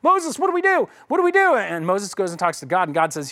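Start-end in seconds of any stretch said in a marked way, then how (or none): 0.0-1.5 much higher, louder mock panic; hammed-up frantic cry for help; panicked people. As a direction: Israelites run to Moses in mock panic. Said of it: "They're like".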